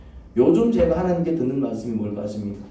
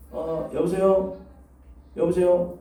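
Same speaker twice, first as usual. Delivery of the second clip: higher-pitched caller checking the line; acted phone hello; 4 semitones higher, much slower than usual. Caller getting no answer, acted phone hello. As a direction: call out a drawn-out hello into a phone. Acts out a failed phone call.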